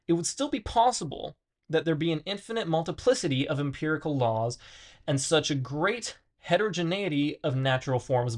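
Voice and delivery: measured read-aloud of dense philosophy, stumbling on hard words. Acted. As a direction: read it out with lively, swinging emphasis. Reads philosophy text aloud.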